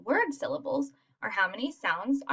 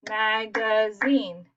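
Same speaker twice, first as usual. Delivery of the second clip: "Magazine" slow and even, MA-GA-ZINE, three beats; one clap for each syllable of "Magazine"; much slower than usual. Shown as a demonstration. Teacher clapping syllables for children, slow three-beat "Magazine". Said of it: "What if I clap it?".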